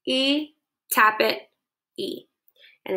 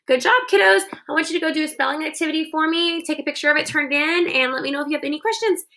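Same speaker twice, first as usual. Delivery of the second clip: cheerful sign-off; 6 semitones higher, faster than usual. Real, not acted. Cheerful wrap-up to kids.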